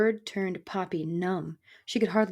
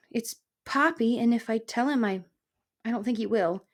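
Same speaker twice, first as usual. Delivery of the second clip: higher, hesitant little voice; timid mouse; 3 semitones higher than usual. Acted. Mouse correcting the grouchy porcupine, timid and hesitant. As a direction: falter as you meekly correct him.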